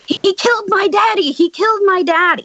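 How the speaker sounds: imitating a distraught child, high-pitched; high retold wail of a panicked kid; mock scream at restrained volume. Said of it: "this kid is screaming".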